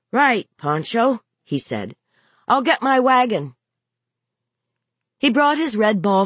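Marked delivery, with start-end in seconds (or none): 0.1-1.2 put-on higher, slower boy's voice; lightly voiced little boy, pitched up; young boy. A narrator's reading. Boy answering his mother in their game, playful child voice. Young son playing along. 2.5-3.5 put-on higher-pitched little boy; lightly voiced eager child; young boy. A narrator's reading. Boy offering his wagon to his mother, higher child voice.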